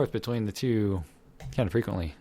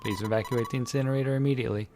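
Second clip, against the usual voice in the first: creepy voice; 4 semitones higher than usual. Acted. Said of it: "one hell of a creepy voice".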